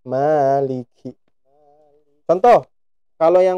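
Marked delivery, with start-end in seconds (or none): 0.0-1.2 "Maliki" slow with a puff of air on the kaf; breathy kaf that moves tissue; aspirated kaf. Shown as a demonstration. Teacher shows the correct kaf with a tissue test. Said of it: "Nah, gerak ya".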